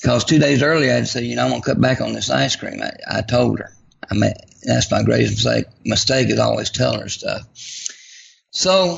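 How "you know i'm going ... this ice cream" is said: plain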